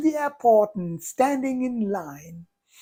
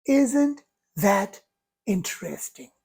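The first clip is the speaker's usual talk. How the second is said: calm curiosity. Shown as a demonstration. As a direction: muse gently, as if mildly intrigued. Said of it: "Thought number one".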